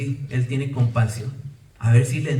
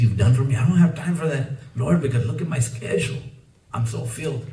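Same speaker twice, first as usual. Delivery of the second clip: mock excuse to God. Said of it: "what if we're gonna tell God".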